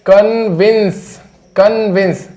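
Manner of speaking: कन्विंस with a short i, slow; कन्विंस drawn out as a model; pronunciation demo. Shown as a demonstration. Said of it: "इसका उच्चारण क्या होता है?".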